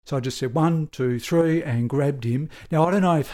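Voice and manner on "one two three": a count called a little higher and louder; urgent countdown. Retold or imitated. Officer counting down to his wounded partner, urgent. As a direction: count him off before the dash.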